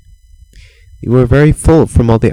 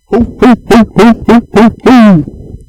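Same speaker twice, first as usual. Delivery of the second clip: high, loud, merry ho-ho-ho laugh; jolly ho ho ho; 11 semitones higher, 5 dB louder, slower than usual. Acted. Frigo laughs to get the crowd jolly, high and loud. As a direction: ring out a big jolly belly laugh.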